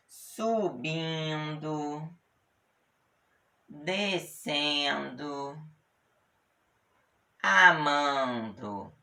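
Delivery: slow, drawn-out gerund forms; teacher reads the gerunds slowly; slow examples. Shown as a demonstration. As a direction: spell out each ending slowly for the class. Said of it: "Como assim?".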